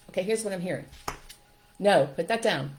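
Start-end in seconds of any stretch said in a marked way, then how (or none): 1.8-2.8 put-on loud, sharp scolding of a toddler; scolding mom. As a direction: bark it at the child.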